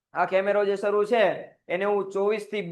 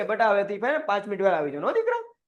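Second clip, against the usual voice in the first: coaxing a latecomer like a fond elder, with a sharp lift on દીકરા; a hint of an uncle coaxing his child. Boss gently scolding a late employee like a fond elder. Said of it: "ન્યા નો કહેવાય".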